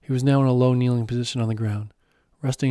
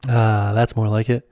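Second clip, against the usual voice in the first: slow, louder, laughing as he praises; laughing approval; 6 dB louder, slower than usual. Acted. Guide praising his student, laughing. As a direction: laugh it out, pleased. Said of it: "he said with a laugh".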